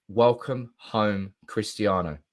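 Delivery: warm welcome. Real, not acted. Greeting Ronaldo back at United.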